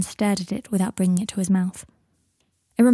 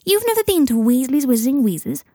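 put-on higher, incredulous kid's question; can't believe what he just heard; disbelief; 5 semitones higher, 4 dB louder than usual. A narrator's reading. Teddy reacts to Scorpius never visiting the shop, incredulous. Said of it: "asked Teddy in disbelief".

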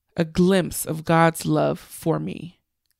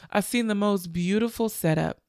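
laughing through tears; 4 dB quieter than usual. Real, not acted. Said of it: "I'm not crying right now".

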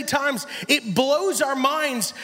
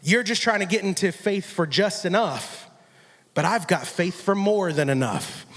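lower voice of Jesus; 5 semitones lower than usual. Acted. Voicing Jesus' correction.

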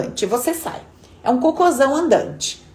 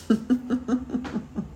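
short real laugh; a quiet chuckle at the joke; soft amused laugh; 8 dB quieter than usual. Real, not acted.

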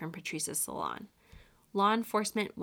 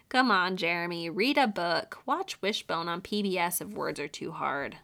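mocking; 3 dB louder than usual. Real, not acted. Mocking the killer.

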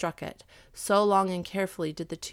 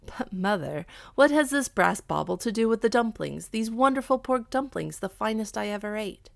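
lightly voiced son questioning his mother; a hint of a baffled, eager youth; animated but light son's voice; puzzled son; 3 semitones higher, 4 dB louder than usual. Son figure in narrated tale.

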